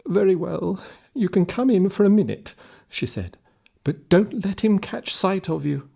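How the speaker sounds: put-on wary old woman. Old woman letting the hungry lad in with a warning. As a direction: give in, but warn him.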